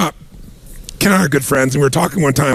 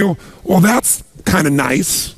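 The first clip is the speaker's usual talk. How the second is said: unimpressed; slower than usual. Retold or imitated. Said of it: "they say".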